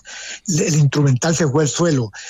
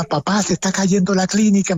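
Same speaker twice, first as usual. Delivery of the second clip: mild mock yell, slightly raised pitch; half-voiced cry of warning, pitched up; retold shout; 4 semitones higher than usual. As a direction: imitate a son's alarmed call without full volume. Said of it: "me gritaba".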